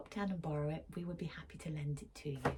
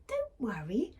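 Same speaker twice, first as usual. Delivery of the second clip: peeping mouse; 5 semitones higher, 4 dB louder than usual. Acted. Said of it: "Mouse peeped".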